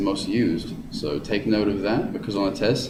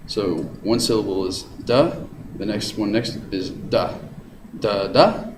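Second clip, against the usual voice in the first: da then da rising up; rising da-da demo. Shown as a demonstration. Teacher demonstrates iambic rhythm to students, rising beat. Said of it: "It's in a rising pattern".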